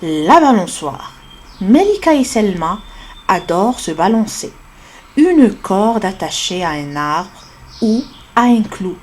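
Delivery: re-reading the text slowly and clearly; slow model reading. Shown as a demonstration. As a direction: read it again, syllable by syllable, for learners. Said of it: "نعاود".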